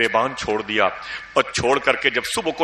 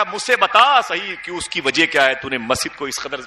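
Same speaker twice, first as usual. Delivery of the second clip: scolding; 5 semitones higher than usual. Retold or imitated. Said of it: "بہت ڈانٹا".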